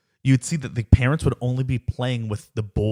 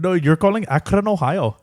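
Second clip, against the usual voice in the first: higher-pitched fake Indian agent; mock Indian accent; 4 semitones higher than usual. Joins in the call centre impression.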